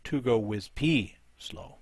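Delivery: slow, deliberate naming with P picked out; stress on P. Real, not acted. Commentator correcting the army name after spotting a peck, stress on P. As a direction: spell it out slowly, leaning on "P".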